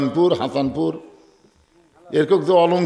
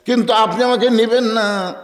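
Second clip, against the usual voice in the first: impassioned complaint; 8 semitones higher, 4 dB louder than usual. Acted. Acted complaint of the wife.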